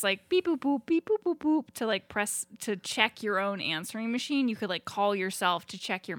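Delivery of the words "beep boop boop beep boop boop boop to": higher sing-song beep boop; phone beep noises. Retold or imitated. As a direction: chirp the beeps like keypad tones. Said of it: "you could press".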